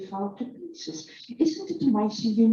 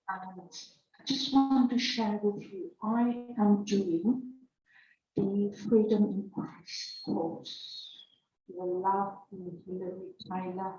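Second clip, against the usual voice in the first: reading slowly. Shown as a demonstration. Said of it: "I'm going to read slowly".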